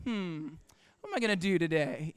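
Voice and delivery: low, soft musing; talking to oneself. Acted. Preacher acting out talking to yourself, low musing. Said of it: "You ever talk to yourself?".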